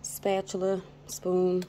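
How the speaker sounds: ordinary talk, nothing marked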